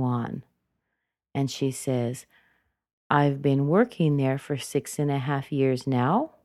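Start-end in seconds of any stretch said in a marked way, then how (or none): 3.1-6.3 "now" sweeping up at the end; unfinished rising intonation. Shown as a demonstration. Teacher modeling a continuing introduction, rise on "now". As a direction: lift "now" to keep the listener waiting. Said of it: "She's still not finished".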